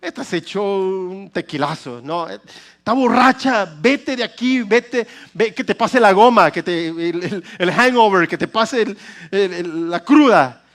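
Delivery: a hint of a stern priest shooing her off; lightly voiced priest mocking her as drunk; scolding priest Eli. Pastor voicing Eli accusing Ana of being drunk, lightly scornful. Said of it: "vio y le dijo".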